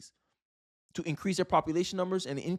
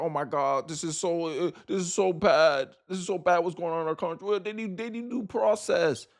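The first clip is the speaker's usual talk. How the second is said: mocking whiny Democrat. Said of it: "Democrats are like".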